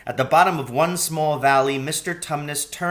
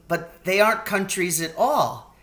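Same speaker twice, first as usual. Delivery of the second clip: almost laughing; 7 semitones higher than usual. Acted. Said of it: "almost laughing".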